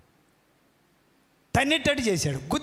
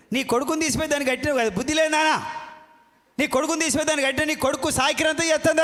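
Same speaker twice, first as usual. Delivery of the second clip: fast, raised scolding shout; 4 semitones higher, faster than usual. Acted. Preacher rebuking mothers-in-law, fast raised scold. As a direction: rebuke them hotly, faster.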